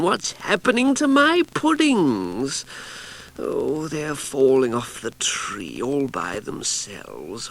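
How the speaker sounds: woken-up witch calling into the garden; sleepy Cassandra. Acted. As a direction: call out half-asleep, puzzled. Cassandra wakes again.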